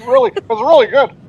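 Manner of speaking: high, loud, breezy small talk; suave guy voice. Acted. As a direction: charm your way through it. S0 voices Jeff sipping.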